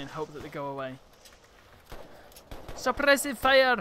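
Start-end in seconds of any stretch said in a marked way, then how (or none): 2.8-3.8 loud, high, drawn-out shout; slow, raised-pitch combat call; battle cry. Pretend. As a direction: bellow it like a squad command. Calling out during play.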